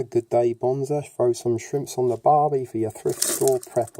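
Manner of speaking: badly faked Aussie accent; terrible Australian accent. Greeting viewers down under in a terrible Australian accent. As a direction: put on a hammy Australian accent. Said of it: "that's my terrible accent gone".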